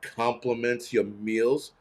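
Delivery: slow, incredulous repeat of the phrase; slow, sarcastic echo; mocking disbelief. Real, not acted. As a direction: drag it out in disbelief. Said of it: "You kidding me?".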